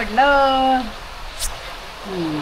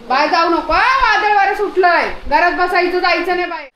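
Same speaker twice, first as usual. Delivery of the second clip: gentle pet scolding; 5 semitones higher than usual. Real, not acted.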